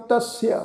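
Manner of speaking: ਤਸਯ said as tas-i-ya, with the half ya sounded as sihari plus aira; careful pronunciation demo. Shown as a demonstration. Teacher showing students how ਤਸਯ is pronounced, tas-i-ya. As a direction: spell out ਤਸਯ syllable by syllable, tas-i-ya. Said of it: "ਫਿਰ ਅੱਗੇ ਐੜਾ ਅੱਖਰ ਤੋਂ ਉਚਾਰਨ ਕਰਾਂਗੇ".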